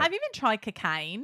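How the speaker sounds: put-on Australian accent. Shown as a demonstration. Showing co-hosts her one line, Australian accent. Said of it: "I have a pretty good Australian accent".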